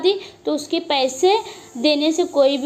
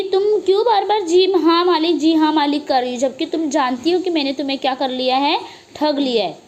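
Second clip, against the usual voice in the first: scolding. Acted. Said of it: "उसे चिल्ला रहा है, डांट रहा है".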